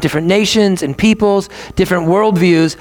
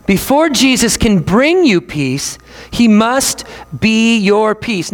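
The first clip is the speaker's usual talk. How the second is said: repeated slowly for weight; slow preacher emphasis; slower still, emphatic; slower than usual. Shown as a demonstration. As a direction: hammer it home slowly. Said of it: "we have to say this".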